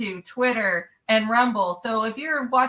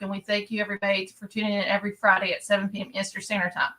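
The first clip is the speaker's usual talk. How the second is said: rapid-fire rattled-off promo; auctioneer; 3 semitones lower, faster than usual. Real, not acted. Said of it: "I always feel like an auctioneer".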